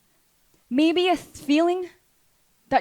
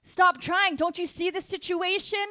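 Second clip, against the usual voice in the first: higher-pitched scornful doubters; raised, taunting voice; voices of discouragement; 7 semitones higher, 4 dB louder than usual. Acted. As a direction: act out the naysayers urging surrender. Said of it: "there's voices all around you telling you".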